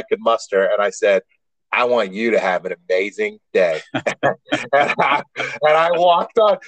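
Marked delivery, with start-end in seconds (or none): 1.7-3.8 a low, sugary "have an amazing day"; sarcastic sweetness. Retold or imitated. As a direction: fake nicety dripping with spite. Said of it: "the biggest asshole look on my face".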